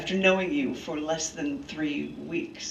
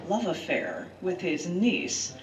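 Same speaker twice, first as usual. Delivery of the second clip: measured storyteller reading of history; earnest essay read to friends; dramatic essay reading; 3 semitones lower than usual. Acted. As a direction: read it like a documentary narrator. Reads her dramatic essay aloud.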